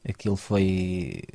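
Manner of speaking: ordinary talk, nothing marked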